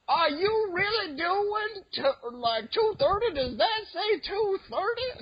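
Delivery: very high, slow, amazed mock voice; exaggerated imitation of an older Black man's accent, astonished; imitated older black man. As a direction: ham up an old man's disbelief. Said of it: "my black accent".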